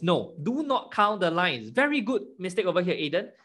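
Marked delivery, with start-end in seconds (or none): 0.0-1.7 "not" in do not count the lines stressed, slow. Shown as a demonstration. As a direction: lean hard on "not" in do not count.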